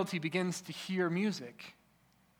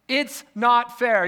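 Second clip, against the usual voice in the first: mock sulky child, louder; a preacher voicing a pouting child; childish whine; 6 semitones higher, 10 dB louder, much slower than usual. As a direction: whine it like a sulking kid. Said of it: "He's being a child".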